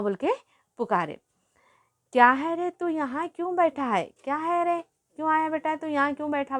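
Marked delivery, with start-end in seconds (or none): 2.1-6.6 put-on higher-pitched grandmother asking the boy why he's sitting there; grandmother's voice. Grandmother, in a higher voice, asks the boy what he wants. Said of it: "बोल के बोले".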